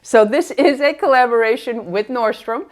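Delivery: muffled through a face mask; talking behind a mask. Real, not acted. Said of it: "let's go ahead and remove the mask".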